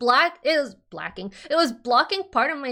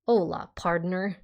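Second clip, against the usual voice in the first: Texas drawl; 3 semitones lower than usual. Acted. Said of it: "it's all Texas over here".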